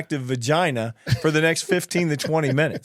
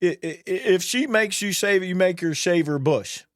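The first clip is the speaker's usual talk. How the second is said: higher-pitched retold retort, stammered start; quoting a coworker's insistent advice; imitating Jack; 5 semitones higher than usual. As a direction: stammer into a mock-insistent comeback. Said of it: "He goes".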